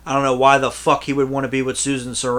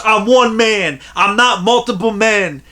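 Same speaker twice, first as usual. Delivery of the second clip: imitating a hero, indignant; 8 semitones higher, 6 dB louder than usual. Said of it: "He goes".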